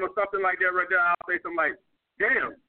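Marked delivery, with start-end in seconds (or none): 2.2-2.6 dry mock curiosity, pitched a bit up; sarcastic jab at a woman on her phone. Shown as a demonstration. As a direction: tease her about the phone, deadpan. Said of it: "I just some sarcastic".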